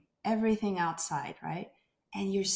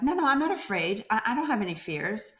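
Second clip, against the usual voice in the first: defensive denial; 3 semitones higher, 3 dB louder, faster than usual. Retold or imitated. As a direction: wave the fear away fast, half-insisting. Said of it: "my patients are like".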